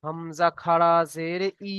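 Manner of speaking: slow spelling-out, with the final "ই" held long; drawn-out vowel. Shown as a demonstration. Teacher shows students the one-alif stretch, final "ই" drawn out. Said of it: "এক আলিফ পরিমাণ টান দিয়ে পড়তে হবে".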